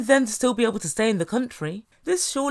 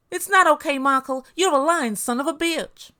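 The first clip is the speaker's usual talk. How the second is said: acted indignant outburst, higher and louder; mock-angry comeback, pitched up; angry retort; 4 semitones higher, 3 dB louder than usual. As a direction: snap back as the wronged wife.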